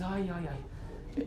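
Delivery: soft, drawn-out "ay" sighs; mock ecstasy. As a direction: imitate being swept away, slowly and softly. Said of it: "un éxtasis". (éxtasis fingido, suave y alargado)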